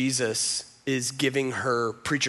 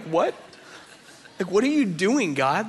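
retold exasperation, a little raised; mad at God; 3 semitones higher than usual. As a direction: demand answers from God, reenacted. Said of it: "being so mad at God".

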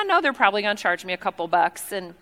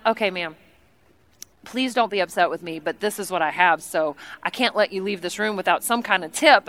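lower, earnest, careful appeal; apologetic plea; 4 semitones lower, 3 dB quieter than usual. Retold or imitated. Guest offers quarters to tea lady, low apologetic pleading. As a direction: gently beg her understanding.

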